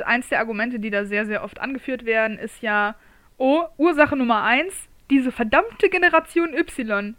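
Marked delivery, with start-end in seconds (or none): 3.4-7.2 put-on grumpy old man. Complaining about Generation Y.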